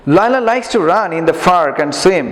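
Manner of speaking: slow, careful English read-aloud for pupils. Shown as a demonstration. Teacher reading slowly to the class. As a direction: read each word slowly so students copy. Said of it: "উচ্চারণগুলো খেয়াল করবা".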